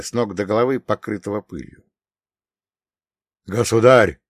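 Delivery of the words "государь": gasped out, short of breath; breathless. Acted. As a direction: exhale the word, panting. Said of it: "выдохнул Воротынский". (выдохнул, запыхавшись)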